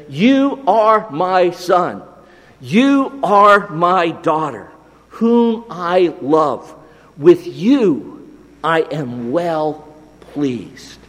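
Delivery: slow, measured words of affirmation; slow, deliberate fatherly assurance; tender blessing. Acted. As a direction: claim them as your own children, word by word. Voicing God claiming his children.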